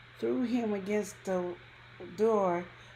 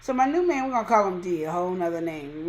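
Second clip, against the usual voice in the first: ordinary talk, nothing marked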